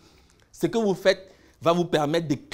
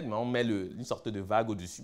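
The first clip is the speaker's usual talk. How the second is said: ordinary delivery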